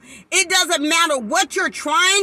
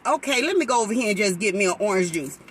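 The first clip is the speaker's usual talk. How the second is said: quick compliant reply; 8 semitones lower, 4 dB quieter, much faster than usual. Retold or imitated. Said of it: "And you say".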